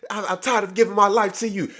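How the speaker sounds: mocking Lisa. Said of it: "It's like".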